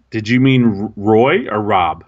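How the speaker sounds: lightly voiced nervous little girl, faltering on the name. Rattled podcaster timidly correcting his favorite designer, mock-nervous. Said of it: "the nervous little, uh, little girl inside of me".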